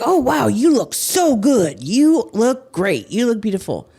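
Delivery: mock-sweet admirer gushing; gushing fan imitation. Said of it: "it's just like".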